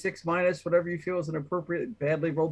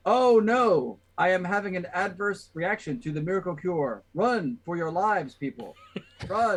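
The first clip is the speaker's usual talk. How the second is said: panicked alarm, crying out; mock panic warning the crowd; fake hysteria; 3 semitones higher than usual. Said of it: "scream out in a really".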